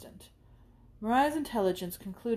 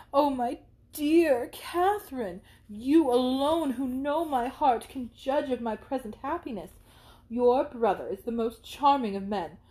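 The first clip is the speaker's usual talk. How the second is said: higher, louder breathless gush; overflowing with mock rapture; gushing excitement; 3 semitones higher, 5 dB louder than usual. Isabella gushes about love.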